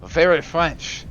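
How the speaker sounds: slow, loud mock French accent; crazy French accent. Streamer admiring own pronunciation, hammed-up French accent. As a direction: draw it out in a silly French accent. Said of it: "and the crazy accent".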